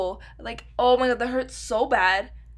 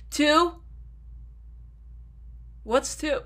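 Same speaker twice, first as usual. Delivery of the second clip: higher and louder, pretending to be stumped; exasperated mock question; 4 semitones higher, 3 dB louder than usual. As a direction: fake puzzled outburst. Mock quiz with herself.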